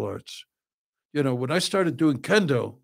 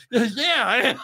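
laughing reply; 10 semitones higher than usual. Retold or imitated. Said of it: "laughing retort".

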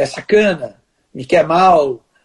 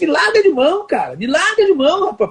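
higher-pitched, half-acted angry retort; irritated retort; 7 semitones higher than usual. Telling off the colleague who provoked him, mock angry. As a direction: replay the snap at him, only partly in earnest. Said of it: "aí eu me irritei com ele".

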